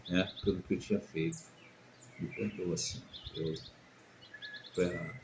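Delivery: low, soft, confessional telling; hushed recollection. Retold or imitated. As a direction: speak softly as if confessing to God. Retelling his repentant prayer, moved. (relato contrito, em voz baixa)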